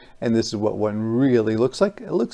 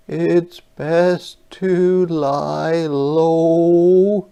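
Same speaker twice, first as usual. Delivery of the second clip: very slow, higher fish voice; 5 semitones higher, 4 dB louder, much slower than usual. Acted. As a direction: fish advising calm. Fish speaks in story.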